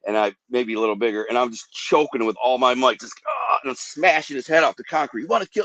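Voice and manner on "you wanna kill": high, furious yell while fighting; retold yelling. Man choking attacker, yelling at him in fury. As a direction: snarl it mid-fight, higher pitch. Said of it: "I kept saying".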